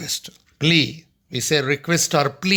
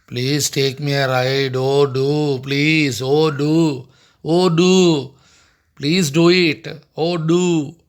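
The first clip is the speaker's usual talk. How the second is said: "do" pressed hard and louder; insistent "do"; 3 dB louder, much slower than usual. Shown as a demonstration. Duck begs the kangaroo, leaning hard on "do". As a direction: plead with weight on every "do". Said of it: "Do means compulsorily".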